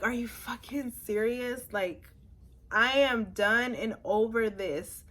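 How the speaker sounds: emphatic, fed-up mock outburst; retold exasperation. Patient as the doctor walks out, fed up. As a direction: protest with punchy emphasis.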